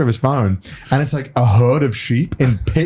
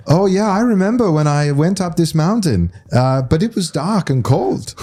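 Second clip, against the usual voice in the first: lightly raised mimicry of the guide; casual retelling voice, a bit higher; imitating Mario; 5 semitones higher than usual. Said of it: "and he goes".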